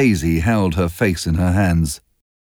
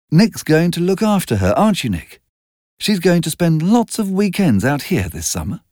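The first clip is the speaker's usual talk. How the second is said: Daisy voice; 8 semitones higher than usual. A narrator's reading.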